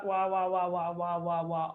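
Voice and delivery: droning muted-trumpet wah-wah voice; Charlie Brown's teacher. Retold or imitated. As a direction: mimic the cartoon teacher's wordless drone. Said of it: "Charlie Brown's teacher that goes".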